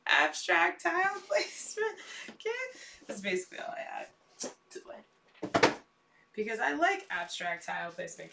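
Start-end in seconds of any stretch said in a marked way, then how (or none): 0.1-2.8 sheepish question. Retold or imitated. Her own hesitant retold answer.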